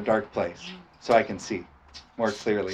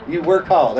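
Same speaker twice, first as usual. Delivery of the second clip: higher, louder hillbilly twang; 4 semitones higher, 5 dB louder than usual. Shown as a demonstration. Preacher leads the hillbilly voice game with the congregation. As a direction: play the hillbilly for laughs. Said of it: "let's get it in our hillbilly voice".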